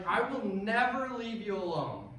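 steadier, controlled reassurance; calmer. Retold or imitated. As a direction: reassure him after the shouting. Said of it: "I responded a little calmer".

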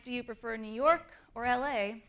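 "New York" rises, "L A" falls; question intonation demo. Shown as a demonstration. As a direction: lift on New York, drop on L A. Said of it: "when I say New York, my voice goes up".

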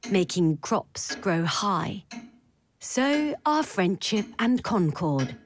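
slow, measured verse reading; poem recitation. Acted. Narrator opens with Pentti Lyytinen's poem On Consensus, slow recitation. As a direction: recite it line by line, unhurried, with pauses.

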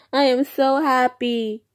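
high, loud happy squeal; gushing with delight over the milestone; excited. Real, not acted. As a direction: burst out with joy. Repeats happy line twice.

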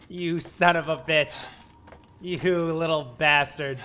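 loud cursing. Real, not acted. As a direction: yell them at the screen. Cursing after jump scare.

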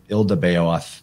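"Ildabaoth" starting with a short "il"; variant pronunciation. Shown as a demonstration. Offering listeners another way to say the creator god's name, variant pronunciation "Ildabaoth" opening on "il". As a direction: say "Ildabaoth" as IL-da-BAY-oth. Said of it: "lot of ways you might pronounce it".

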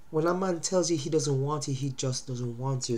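blocked nose from a cold; light, stuffy sick voice; stuffed up. Real, not acted. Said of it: "sorry, I'm getting stuffed up".

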